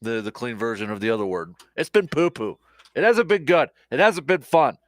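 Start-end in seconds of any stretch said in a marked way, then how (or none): 1.8-4.8 higher and louder, fed-up emphasis; exasperated fan ranting; emphatic venting. Real, not acted. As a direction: vent the frustration with punch. Venting about losing streak.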